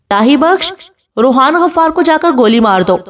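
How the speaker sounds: husband orders his servant to shoot, angry. Acted. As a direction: bark the order with restrained fury. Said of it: "غصے سے کہتا ہے".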